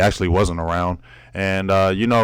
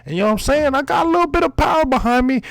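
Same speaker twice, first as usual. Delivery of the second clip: raised pitch, lighter cocky brag; cocky boxer boasts; 5 semitones higher than usual. Real, not acted. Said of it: "cocky breathless boxer boasts".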